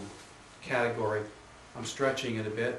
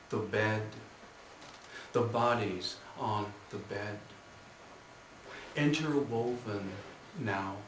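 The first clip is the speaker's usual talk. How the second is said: measured poem recital with long pauses; unhurried, deliberate verse delivery; poetry reading; 3 dB quieter, slower than usual. Acted. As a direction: read the poem line by line, letting each image hang. Reads own poem to audience.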